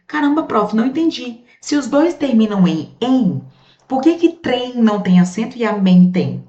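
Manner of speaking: high, puzzled student voice; confused student. Pretend. Teacher voicing a student confused about amém, high and puzzled. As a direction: play a baffled pupil protesting.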